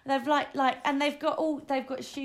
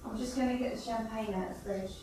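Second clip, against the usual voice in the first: from another room; 5 dB quieter than usual. Real, not acted. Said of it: "I'm in the kitchen".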